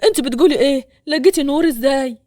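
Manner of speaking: demanding the news eagerly; eager and urgent. Acted. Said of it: "وهو بيشدها ليه بلهفة". (بلهفة وصوت أعلى)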